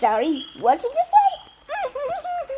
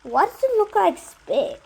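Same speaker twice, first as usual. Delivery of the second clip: shocked disbelief; 8 semitones higher, 5 dB louder than usual. Real, not acted. Shocked at milk looking like spit.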